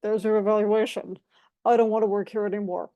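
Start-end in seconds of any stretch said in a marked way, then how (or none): 1.6-2.9 mild mock annoyance, said quickly; a hint of a fed-up coworker; annoyed. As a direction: rattle it off as a lightly irritated complaint. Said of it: "in a very annoyed voice".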